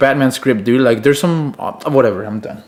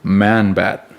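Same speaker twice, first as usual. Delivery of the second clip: dramatic reveal; 5 semitones lower than usual. Pretend. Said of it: "get ready".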